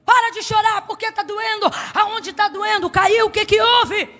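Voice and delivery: high, loud, impatient shout; scolding mother. Acted. Exasperated mother shouting at her crying son, loud scolding. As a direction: snap at the crying kid to stop.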